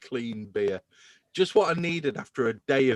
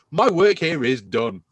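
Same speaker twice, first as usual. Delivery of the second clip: smug, proud declaration, a little louder; triumphant declaration; 5 dB louder than usual. Pretend. Host gloating to co-hosts after being proved right, smug. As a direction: savour the victory out loud.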